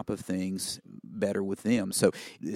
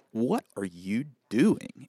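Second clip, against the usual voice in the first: slow, drawn-out question to a show-off student; mock incredulous, every word stretched; retold disbelieving challenge; 2 semitones higher, much slower than usual. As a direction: imitate an instructor stopping someone in their tracks. Instructor stops him mid-read, retold.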